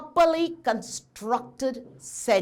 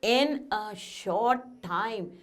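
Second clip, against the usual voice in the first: slow answer; 3 semitones lower, 5 dB quieter, slower than usual. Shown as a demonstration. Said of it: "When will you be with me, children?".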